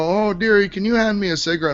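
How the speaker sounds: a hint of grandma asking a favor; retold sweet request. Retold elderly relative asking for cigarette.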